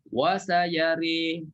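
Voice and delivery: slow chant cut off at "sayari"; tajwid recitation. Shown as a demonstration. Ustaz showing where to stop, slow chant. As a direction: recite slowly and stop short.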